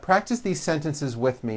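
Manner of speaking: ordinary talk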